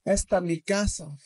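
imitated Spanish accent. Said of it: "forgive me of this accent".

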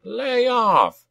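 high, goblin-voiced order to stop; goblin cry. A narrator's reading. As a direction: holler it high to break up a fight. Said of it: "cried Nazbot".

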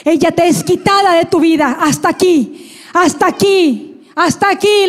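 re-enacted prophetic declaration; prophesying. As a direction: hammer out the repeated phrase as a decree. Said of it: "empezó a profetizar".

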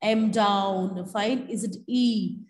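mock Evans accent, slow and dropping sounds; slow mock Evans accent with clipped words; Evans's clipped accent. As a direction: imitate Evans swallowing half his words. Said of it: "This is the accent of Evans".

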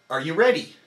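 Are you ready with the hit on re; stress on re of ready. Shown as a demonstration. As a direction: contract the core on re. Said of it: "only on re".

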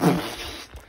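short imitated wind blast; imitated wind noise. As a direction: mimic noisy wind on a recording. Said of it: "it was going like".

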